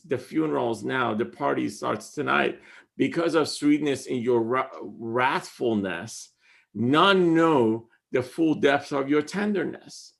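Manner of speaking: hushed, reflective reading. Acted. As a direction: let the line settle downward. Rereads the whole stanza.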